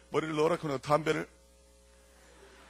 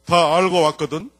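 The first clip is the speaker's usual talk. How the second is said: slow, much louder threat; menacing detective; 2 semitones higher, 13 dB louder, slower than usual. Retold or imitated. Detective threatening the son's friend, slow and loud. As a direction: press the boy like a tough cop. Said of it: "이렇게 얘기를 하는 거야".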